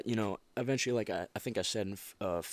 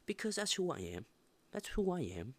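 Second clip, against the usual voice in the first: whispered mantra; 9 semitones higher than usual. Real, not acted. Whispered self-affirmation.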